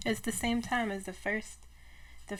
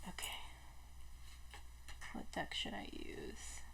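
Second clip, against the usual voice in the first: soft whispered question to herself; 14 dB quieter than usual. Real, not acted. Picking a tarot deck, whispering to herself. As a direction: whisper it while deciding. Choosing cards under her breath.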